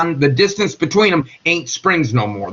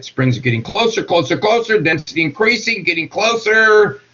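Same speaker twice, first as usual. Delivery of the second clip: climbing higher on each "closer"; rising build, last "closer" stretched out; building tension; 4 semitones higher than usual. Shown as a demonstration. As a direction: wind it up toward a pop, pitch rising. Acting out molecules squeezing ever closer.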